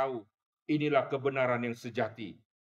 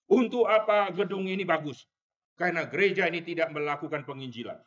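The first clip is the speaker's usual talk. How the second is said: raised rebuking shout, quickening; old pastor shouting; 4 semitones higher than usual. Retold or imitated. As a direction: hammer the church with the question. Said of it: "dia terus berteriak". (teriakan teguran pendeta tua)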